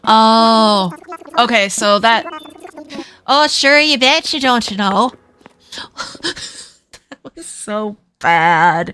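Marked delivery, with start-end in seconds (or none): 3.3-5.1 hammed-up stereotypical Minnesotan accent. Streamer showing chat the stereotype, mock Minnesotan accent. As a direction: put on a folksy Minnesotan lilt. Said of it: "a very stereotypical Minnesotan th-, thing".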